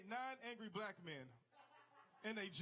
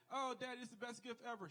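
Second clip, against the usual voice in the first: a hint of a gushing little girl, slightly higher; overacted daughter; 4 semitones higher than usual. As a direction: lightly mimic a child overdoing her thanks. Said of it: "she overacted".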